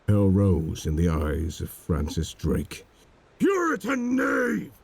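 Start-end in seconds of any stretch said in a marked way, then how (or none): 3.4-4.7 high, ringing furious shout; swearing in rage. A narrator's reading. Drake cursing Solomon Kane to his face, furious shout. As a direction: spit the insult out like a curse. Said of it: "swore he".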